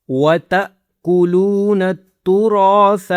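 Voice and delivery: وَتَأْكُلُونَ chanted with an abrupt catch after "ta"; jerked hamza. Shown as a demonstration. Teacher modelling sukoon on hamza, jerked "ta" in وَتَأْكُلُونَ. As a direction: cut "ta" short in وَتَأْكُلُونَ, then recite on. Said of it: "جھٹکے کی آواز".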